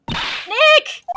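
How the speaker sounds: high, loud excited shout of his name; urgent call. Acted. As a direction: yell for him down the phone. Maya calling on phone.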